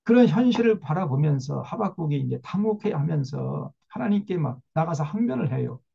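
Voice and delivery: usual speaking voice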